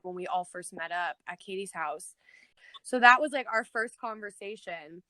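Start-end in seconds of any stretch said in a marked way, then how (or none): 0.0-2.1 whisper. Real, not acted. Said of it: "unvoiced whisper".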